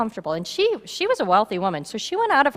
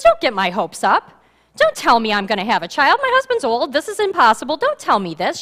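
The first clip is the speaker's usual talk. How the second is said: agitated woman; 5 dB louder than usual. Acted. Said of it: "She's kind of agitated with Elijah".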